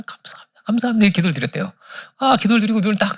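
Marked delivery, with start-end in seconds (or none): 0.0-0.6 a breathless whispered 감사합니다; whispered thanks. Retold or imitated. Missionary thanking God in his hospital bed, whispering. Grateful prayer, repeated thanks. 0.6-1.0 lifted thanks. Retold or imitated. Missionary thanking God in his hospital bed, raised and glad. Grateful prayer, repeated thanks.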